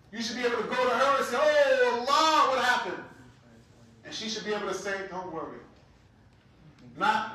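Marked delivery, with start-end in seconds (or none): 1.4-3.0 raised, eager concern; caring wife's cry. Retold or imitated. Wife asks her stressed husband what happened, raised voice. 5.1-5.6 soft, low reassurance; calm him gently; soothing. Retold or imitated. Wife soothes her stressed husband, soft and low.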